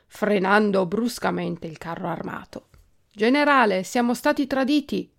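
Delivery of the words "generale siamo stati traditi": raised, higher alarmed shout; captain's cry. A narrator's reading. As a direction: cry out a report of betrayal. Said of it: "gridò uno dei tre capitani".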